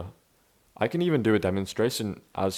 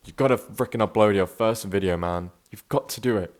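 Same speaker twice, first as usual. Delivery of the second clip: mildly forced, punchy pep talk; old forced voice. Shown as a demonstration. Imitating himself in his last video, old forced voice. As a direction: push the words out in the old trying way. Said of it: "last video like this".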